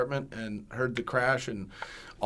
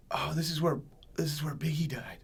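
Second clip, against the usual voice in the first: whispered, awestruck re-enactment; hushed realisation; 4 semitones higher than usual. Retold or imitated. Injured man to his partner in hospital, whispered realisation. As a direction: whisper it like a dazed patient. Dazed patient's realisation, acted.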